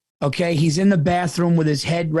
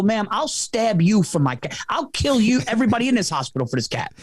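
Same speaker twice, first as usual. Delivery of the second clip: hammed-up fierce threat; 6 semitones higher than usual. Over-the-top mock threat.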